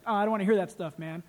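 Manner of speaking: retold grumpy protest; irritated brush-off. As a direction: wave them off, mildly exasperated. Acted brush-off in retold exchange.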